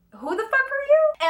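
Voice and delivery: hostile challenge. Retold or imitated. Acted quote in a confrontation.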